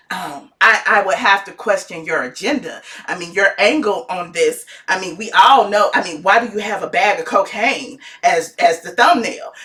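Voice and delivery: cool and collected with a hidden jab; calm shady caller. Retold or imitated. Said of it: "he's being calm, cool, and collected".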